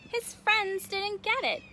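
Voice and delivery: put-on lilting read-aloud for children, key words stretched; story narration. Reader telling children about the rocks, lilting story narration. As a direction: read a rhyming picture book expressively. Reads a picture book aloud.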